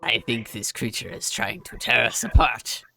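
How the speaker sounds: ordinary talk, nothing marked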